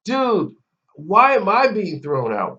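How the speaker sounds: high, loud imitation of an aggrieved customer; mock complaining. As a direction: whine to the manager in mock outrage. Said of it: "he comes back to the manager to complain".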